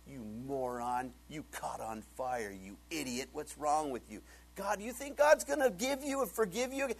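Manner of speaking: mocking Satan. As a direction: jeer at the fallen one like Satan would. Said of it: "he's gonna come up and say".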